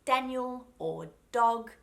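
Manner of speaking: Daniel and dog with clean, solid first D; crisp tongue-tip D starting Daniel, dog; clean hard D. Shown as a demonstration. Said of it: "it's just a really clean sound".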